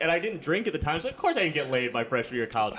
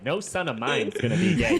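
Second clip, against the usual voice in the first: campy gay-sounding dad; 2 semitones lower than usual. Retold or imitated. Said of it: "He sounded very gay".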